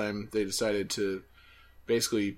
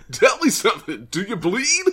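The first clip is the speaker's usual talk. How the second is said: high, loud cackling clown voice; silly clown voice; 9 semitones higher, 7 dB louder than usual. Pretend. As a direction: ham it up like a giggling clown. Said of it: "Heard a clown voice".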